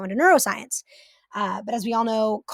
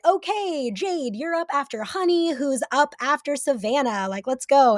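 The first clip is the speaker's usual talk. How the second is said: stage manager rounding up; 4 semitones higher than usual. Retold or imitated. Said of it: "be like".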